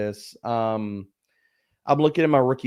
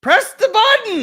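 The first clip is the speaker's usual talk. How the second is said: loud slow call to another room; yelling across the room; 7 dB louder, slower than usual. Real, not acted. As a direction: shout an instruction downstairs. Yelling at son about alarm.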